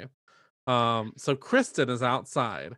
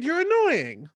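mock shrieked complaint; 12 semitones higher, 3 dB louder, slower than usual. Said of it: "can I just say it".

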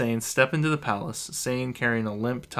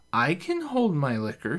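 tipsy confidence; 6 semitones higher than usual. A narrator's reading. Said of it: "she states, straightening up".

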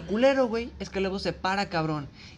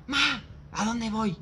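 slow, high, dazed plea; sleepwalker's question; 5 semitones higher, much slower than usual. Retold or imitated. Sister half asleep asking mom where to go, slow and dazed. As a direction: drag it out like a confused sleepwalker.

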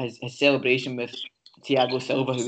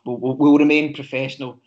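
holding back laughter; 6 dB louder than usual. Real, not acted. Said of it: "I'm trying not to laugh".

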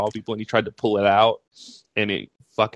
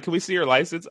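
higher, softer official ask; guard voice; 7 semitones higher, 4 dB quieter than usual. Retold or imitated. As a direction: request it like a guard. Security guard asking.

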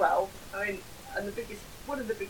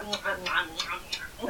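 mock lip-smacking chew; 2 semitones lower than usual. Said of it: "you smack your lips together and you're like".

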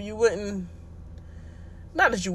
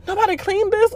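mimicking boss; 11 semitones higher than usual. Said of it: "she be like".

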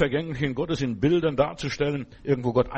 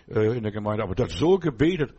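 ordinary delivery

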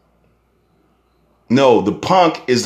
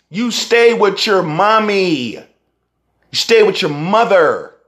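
mocking taunt; 8 semitones higher than usual. Real, not acted. Mocking tough guys living at home.

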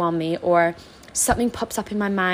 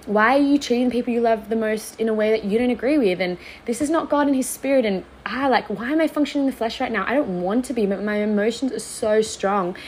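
higher-pitched self-reproach; scolding herself; 4 semitones higher than usual. Retold or imitated. Scolding herself after snapping at family, a higher self-reproach. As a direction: tell yourself off, pleading. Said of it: "went down the line of".

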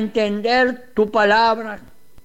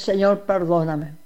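humble repentant prayer, each Señor fading away; voicing the sinner's prayer for listeners, humble and pleading; model prayer of repentance. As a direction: pray it for the listener as if confessing yourself. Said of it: "Cuando tú abres el corazón y dices".

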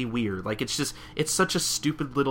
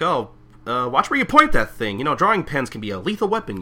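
teasing woman; 4 semitones higher, 6 dB louder than usual. Retold or imitated. Voicing Marilyn teasing.

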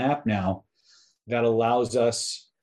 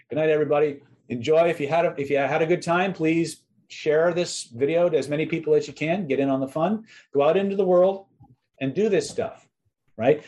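home shopping host; 3 semitones higher than usual. Acted. Closing hype sales pitch.

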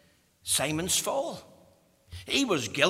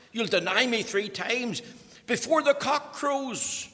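emphatic preaching; 8 semitones higher, 3 dB louder than usual. Acted. Jesus' words repeated with force.

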